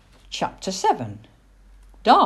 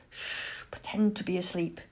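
a shush, then dropping softer and quicker; lowered, hurried warning; hushing; 8 dB quieter than usual. A narrator's reading. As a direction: hush your mate conspiratorially. Owl hushing her mate.

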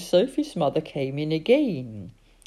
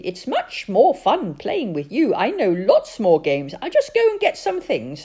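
put-on high, loud, insistent child voice; a pushy little girl pressing her dad to play; bossy little girl; 6 semitones higher, 6 dB louder than usual. Sophie nags her father to take his turn, high and loud.

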